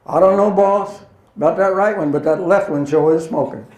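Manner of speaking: a boyish tower operator playing innocent; young tower controller. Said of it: "the little boy in the tower says".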